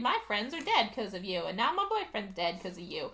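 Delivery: sing-song parody of someone ranting; dismissive imitation of a tirade; mocking retold rant. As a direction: mimic an accusing rant, trailing into whiny nonsense. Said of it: "goes on a ridiculously long rant".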